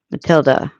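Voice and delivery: "Matilda" with the last A as in sofa; unstressed final A. Shown as a demonstration. Streamer reading out pronunciation rule, short final vowel. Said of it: "like the A in sofa".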